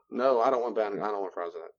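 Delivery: practicing no. Shown as a demonstration. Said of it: "Just practice no".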